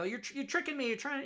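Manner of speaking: high, loud mock-whiny voice of a fooled audience member; mock dupe. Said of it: "And they go".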